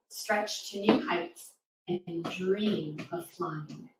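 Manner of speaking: rhythmic rhyming poem read to a class; poem recital. Acted. Reading a rhyming poem aloud.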